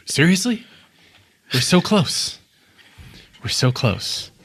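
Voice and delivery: a stranger fed up at the delay; frustrated voice. Acted. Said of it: "another one of the voice goes".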